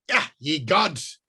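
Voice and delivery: high, slow mock cry of dismay; a hammed-up old wizard's cry. Wizard startled by the ringtone, crying out. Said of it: "cried Murden".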